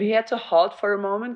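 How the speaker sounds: lightly mixed British and German accent. Real, not acted. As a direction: slip into British with a German edge. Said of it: "You turned British and German".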